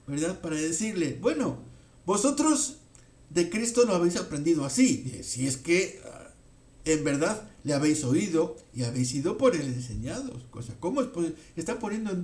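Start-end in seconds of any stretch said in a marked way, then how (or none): 1.2-10.5 gently mock the listeners' claim; preacher voicing Paul's mild sarcasm; mildly sarcastic. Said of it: "Pablo utiliza este mismo lenguaje".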